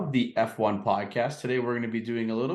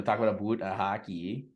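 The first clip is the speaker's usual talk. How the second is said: lightly hammed Canadian "aboot"; mock Canadian accent; 3 semitones lower than usual. Host teases Canadian speech, mock Canadian accent. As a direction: say "boot" the stereotypical Canadian way. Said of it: "talk like this the whole episode".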